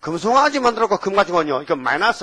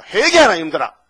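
preaching call; 6 dB louder than usual. Retold or imitated. Jesus calling out to people by the Galilee shore, raised preaching call. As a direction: cry it out like a preacher.

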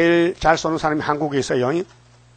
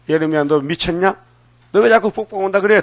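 흉내 낸 핀잔; 3 semitones higher, 3 dB louder than usual. Retold or imitated. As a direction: act out an annoyed neighbour's challenge. 마을 사람들의 비난을 흉내. (따져 묻듯 핀잔주는 흉내)

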